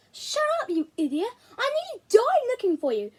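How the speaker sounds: high, loud furious outburst; angry shout. Acted. Boy yells at his brainwashed friend, furious. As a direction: scream it at him across the table.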